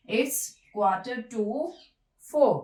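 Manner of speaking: four with no r sound, stressed loud at the end; It's quarter to four said slow, four ending on an open o. Shown as a demonstration. Teacher drills the sentence, four without r. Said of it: "आर जो है ये अपनी sound नहीं देगा".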